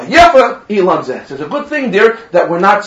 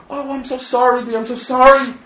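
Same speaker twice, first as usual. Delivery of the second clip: apologetic bride; 6 semitones higher than usual. Acted.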